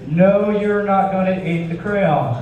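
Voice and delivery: slow, patient no; slow firm coach. Retold or imitated. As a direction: spell it out to a kid. Coach answering kid.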